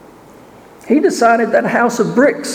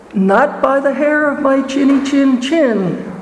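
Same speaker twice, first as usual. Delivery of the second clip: little pigs voice; 4 semitones higher than usual. Acted. Three pigs reply to wolf.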